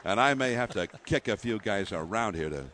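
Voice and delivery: a hint of a southern cowboy manager; Bruce Bochy voice. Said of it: "and that's the way he talks".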